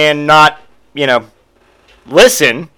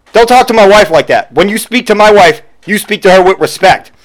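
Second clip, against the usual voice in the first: louder, puffed-up scolding; mock macho husband; 4 semitones higher, 4 dB louder than usual. Husband scolding the clerk, louder. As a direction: lay down the law, hammed-up. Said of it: "he goes".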